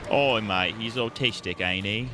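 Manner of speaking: put-on British accent. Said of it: "A British guy".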